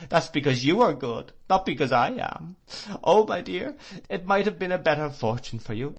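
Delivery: high, loud, anguished crying. Acted. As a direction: lament her own unworthiness in tears. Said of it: "she cried".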